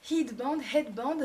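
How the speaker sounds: headband said the English way, h breathed at the start; mock English accent on headband, headband; playful English accent on headband, rising at the end. Shown as a demonstration. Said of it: "mon accent anglais".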